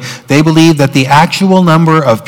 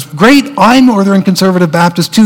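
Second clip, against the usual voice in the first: higher-pitched, playful enthusiasm; acted delight; 5 semitones higher than usual. Man finding a fellow Northern Conservative Baptist, acted delight. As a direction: lightly act a happy match.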